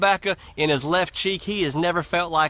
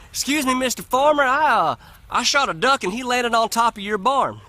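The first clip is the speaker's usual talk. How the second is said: nervous Joe; 5 semitones higher than usual. Acted. Nervous Joe asks the farmer.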